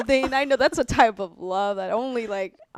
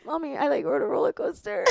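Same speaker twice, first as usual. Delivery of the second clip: retold scared call; 5 semitones higher, 4 dB quieter than usual. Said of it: "I was so scared".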